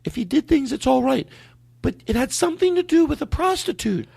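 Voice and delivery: put-on falsetto girlfriend voice; woman's voice. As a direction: play the girlfriend high and falsetto. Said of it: "a dumb woman's voice".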